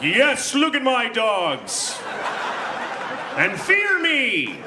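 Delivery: high, slow gloating champion; triumphant boast. Retold or imitated. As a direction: crow like a conquering hero. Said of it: "I was like".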